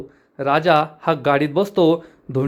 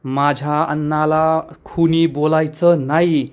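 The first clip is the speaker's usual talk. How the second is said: slow, heavy threat with a changed voice; retold angry threat, slowed down; mock angry warning. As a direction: lean into a slow menacing warning. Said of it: "राजा खूप चिडतो आणि म्हणतो".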